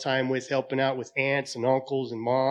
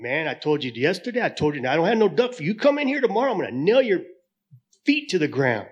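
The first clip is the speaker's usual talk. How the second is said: angry bartender; 3 semitones higher, 6 dB louder than usual. Acted. Bartender threatens the duck.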